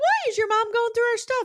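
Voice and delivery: very high-pitched, loud voice. Showing how Jenny always talks, with her weird affect, in a Jenny voice, way up high. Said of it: "like way up high".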